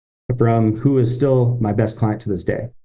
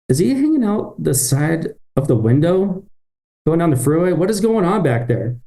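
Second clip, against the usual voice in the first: retold surprise; 5 semitones higher than usual. Sees worker out the window.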